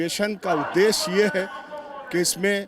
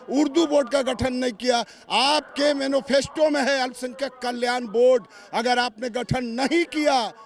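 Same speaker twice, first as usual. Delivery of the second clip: raised, insistent rally-style oratory; political speechmaking; 4 semitones higher than usual. Real, not acted. Minority wing leader warning the government through a reporter, insistent oratory. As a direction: drive each phrase home like a stump speech.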